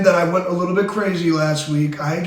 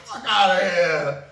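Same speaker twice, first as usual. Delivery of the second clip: high, slow mock-panicked shouting; hammed-up sky-is-falling panic; Chicken Little; 7 semitones higher, slower than usual. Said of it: "You guys sound like Chicken Little".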